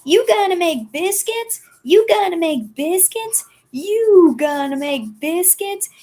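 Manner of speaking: very high, singsong repeated robot question; squeaky Gurr robot. Retold or imitated. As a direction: chirp it over and over like a hyper robot. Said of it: "favorite Gurr quote".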